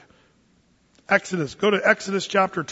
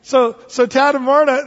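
laughing through words; 6 semitones higher, 8 dB louder than usual. Real, not acted. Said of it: "still laughing, loud and high".

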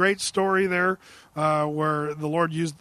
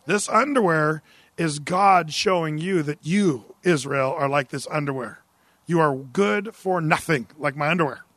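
God's voice; 3 semitones lower than usual. Retold or imitated. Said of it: "in God's voice".

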